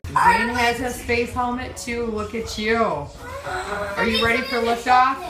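high, slow, sing-song parent voice. Real, not acted. Parent playfully talks to small child.

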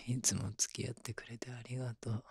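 whispering. Acted. Tender whispered thanks to lover.

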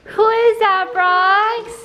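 high, excited coo to a dog; excited dog talk. Real, not acted. Owner asks dog who has arrived, excited.

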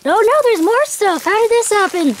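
high-pitched giddy disbelief; thrilled, almost squealing; high excited voice. Real, not acted. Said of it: "My voice is getting really high".

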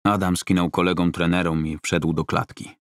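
usual speaking voice

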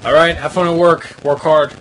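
loud, encouraging farewell; calling out. Real, not acted. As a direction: call out a cheery goodbye to someone leaving. Seeing someone off to work.

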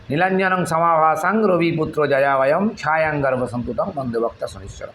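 steady, flowing recitation of a hymn; sanskrit recitation. Shown as a demonstration. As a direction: recite the verse like a prayer. (শনির স্তব পাঠের ভঙ্গিতে)

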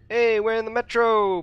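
high, loud excited call. Real, not acted. Player recognising the metro, excited. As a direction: announce it with delighted recognition.

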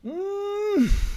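ordinary talk

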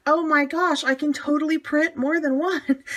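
high and amazed, laughing as it lands; delighted gasp of realization; excited discovery. Retold or imitated. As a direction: realize it all at once. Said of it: "And it's like".

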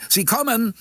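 high, happy announcement; joyful cry. A narrator's reading. A bystander announcing they are coming, joyfully. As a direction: call it out with glad excitement. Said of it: "erklang eine freudige Stimme".

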